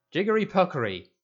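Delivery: high, loud mock-fierce incantation; fierce mock spell. A narrator's reading. Harry frightening Dudley with fake magic words, fierce and loud. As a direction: bark it like a sinister spell to scare him. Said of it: "in a fierce voice".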